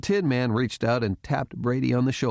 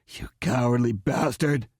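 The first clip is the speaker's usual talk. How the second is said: understated indignant outburst; mildly strained accusation; angry cry. A narrator's reading. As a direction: spit out the insult. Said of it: "Chastain cried".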